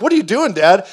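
a hint of a bewildered kid asking dad; puzzled kids. Voicing his puzzled kids.

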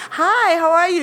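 high, cheery put-on hello; friendly greeting. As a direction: sweet-talk the front desk. Acts sweet-talking the desk clerk.

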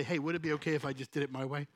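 soft, quick, gentle request; loving. Shown as a demonstration. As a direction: ask kindly and lightly. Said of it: "Just lovingly say".

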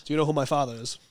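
Boston accent. Shown as a demonstration. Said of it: "say this".

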